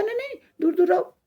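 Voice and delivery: high-pitched dismissive shooing; haughty. Acted. Flowering tree keeps playmates away, haughty. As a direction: wave off playmates with a high, vain voice. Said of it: "अब वो फिर घमंड करने लगा".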